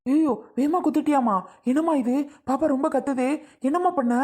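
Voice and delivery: high, anguished wail of protest; crying out loudly. Acted. Father wailing at the nurse as baby cries, distraught. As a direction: cry out as if hurt yourself. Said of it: "நீங்க போடுற கத்து தான் அதிகம்".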